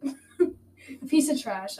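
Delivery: slow, laughing reread of the insult. Real, not acted. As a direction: laugh through each word in disbelief. Rereading own journal insult, laughing.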